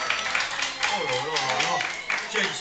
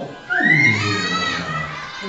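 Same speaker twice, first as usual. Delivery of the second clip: alarmed cry; 9 semitones lower, 8 dB louder than usual. Acted. Dragon appears, hero cries out.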